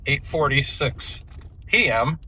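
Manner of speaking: talking while bouncing in a truck; on a bumpy road. Real, not acted. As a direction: voice jolted by bumps. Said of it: "Sorry, it's pretty bumpy back here".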